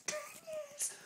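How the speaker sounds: "Ten years!" whispered way up high; whispered aside. Acted. Reader echoing his own words in an awed whisper.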